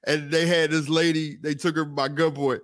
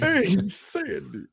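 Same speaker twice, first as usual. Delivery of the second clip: John Travolta in Grease; 2 semitones higher, much slower than usual. Retold or imitated. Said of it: "Was that John Travolta?".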